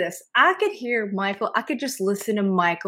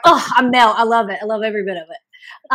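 put-on swooning over the accent, louder at first; gushing; 6 dB louder than usual. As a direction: gush as if melting with delight. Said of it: "And I'm just like".

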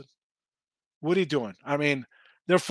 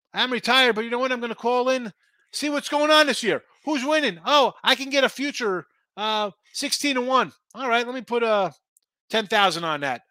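lightly voiced retired player, a bit higher, placing a bet; mock retired insider; 5 semitones higher than usual. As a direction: play a cocky ex-player calling his bookie. Insider imagined calling in bets.

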